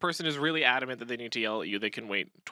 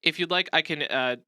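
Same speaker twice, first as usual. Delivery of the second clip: calm, reassuring. Shown as a demonstration. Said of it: "A better response could be something like".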